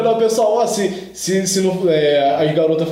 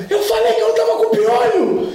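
shouting at mom; 13 semitones higher than usual. Retold or imitated. Boy shouting at his mom after the bad haircut. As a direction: yell it like a kid who was right all along. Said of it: "E comecei a gritar com a minha mãe".

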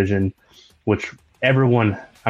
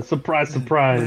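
put-on Italian mobster accent; 4 semitones higher, slower than usual. Sopranos-style bit.

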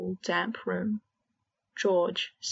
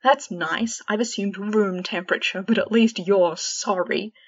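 sarcastic; 5 dB louder than usual. Acted. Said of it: "Fred let out a dark laugh".

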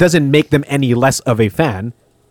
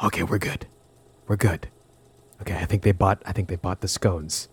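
quiet, breathless relief; relieved; 5 semitones lower, 10 dB quieter than usual. Acted. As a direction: settle down, softly relieved. Acted skit, relief.

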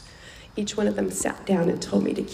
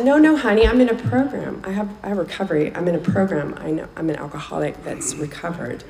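put-on reassuring older lady; 4 dB louder than usual. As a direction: insist warmly, like a kind old lady. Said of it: "She's like".

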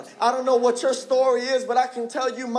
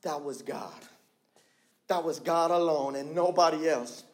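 low and soft, letting it sink in; hushed emphasis; 8 semitones lower, 6 dB quieter than usual. Real, not acted. Preacher closing the point to the church, hushed. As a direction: drop the voice right down for weight.

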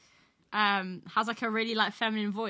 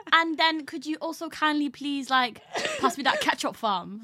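slow, raised politeness dropping to slang; normal switching to road; 3 semitones higher, slower than usual. Retold or imitated. Imitating the girl asking for ketchup, polite turning road. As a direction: begin over-polite, end in road talk. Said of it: "normal to, like, road".

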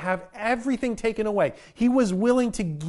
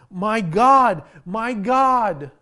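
loud anguished cry, higher pitched; 3 semitones higher, 8 dB louder, much slower than usual. Retold or imitated. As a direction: cry it out to God from the cross. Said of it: "he cries out".

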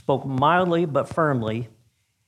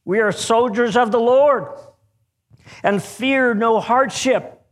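raised, higher and louder declaration; shout; 7 semitones higher, 3 dB louder than usual. Acted. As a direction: proclaim it defiantly across the ice. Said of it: "shouted one".

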